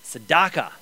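"tzedakah" pronounced deliberately in Hebrew; careful pronunciation. Shown as a demonstration. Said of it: "I'm gonna definitely pronounce this word correctly".

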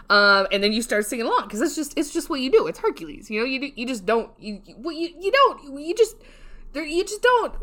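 flustered, stumbling, rising in pitch; too excited. Real, not acted. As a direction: get carried away and trip over the words. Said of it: "I got too excited".

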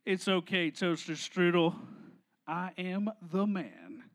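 low, hushed self-assured voice; macho boyfriend. Acted. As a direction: console her in a deep, cool murmur. Boyfriend consoles on phone.

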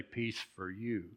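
softly, as a personal blessing; sincere wish to another. Shown as a demonstration. Preacher shows the congregation how to read it, soft and sincere. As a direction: say it gently, as if you wrote it. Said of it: "you would say".

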